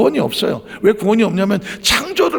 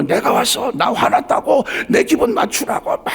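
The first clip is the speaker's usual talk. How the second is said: mock sulky demand; 9 semitones higher than usual. Mocking an angry person.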